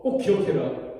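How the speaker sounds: slow, loud mock scolding from an enraged king; angry scolding. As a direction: lean in and warn him slowly. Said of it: "막 그렇게 욕하는 거거든요".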